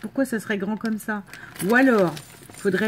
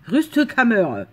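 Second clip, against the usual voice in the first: louder mock German accent, said in one go; 2 semitones higher, 5 dB louder, much slower than usual. Vlogger repeating the German word she found, firm German accent. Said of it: "ça se prononce avec un accent allemand".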